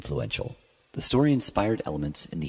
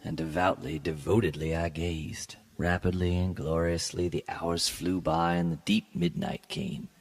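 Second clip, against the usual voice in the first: measured, lightly dramatic reading of a gothic tale; story narration. A narrator's reading. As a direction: read it like a classic gothic story, unhurried. Reads Poe story aloud.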